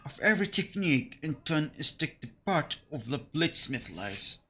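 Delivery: lightly voiced old craftsman; a hint of an old bladesmith; old man voice. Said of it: "I need to put my old man's voice".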